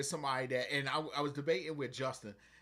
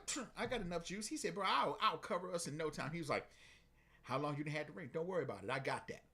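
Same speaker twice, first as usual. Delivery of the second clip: lower, softer, easy assurance; low calm confidence; 3 semitones lower, 5 dB quieter than usual. Retold or imitated. Veteran telling partner he's got it, low and easy. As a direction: reassure him coolly.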